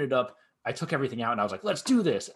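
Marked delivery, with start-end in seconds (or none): 1.6-2.3 high, louder rallying cry; eager mock battle cry; retold gung-ho. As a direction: act out psyching yourself up. Retold eager start on armor.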